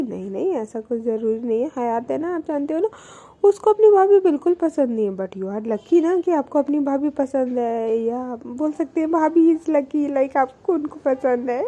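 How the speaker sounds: retold muddled explanation, tripping over words; imitating someone tangling herself up; confused rambling. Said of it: "वो इतना confuse होके बोलती है". (उलझी हुई, गड़बड़ाती नकल)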